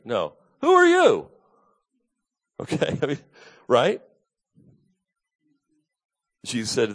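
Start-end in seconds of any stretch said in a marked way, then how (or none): 0.6-1.3 sharp, high, loud hostile challenge; with attitude. Shown as a demonstration. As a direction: fling it at him like a hostile accusation. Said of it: "I gotta say it with some attitude".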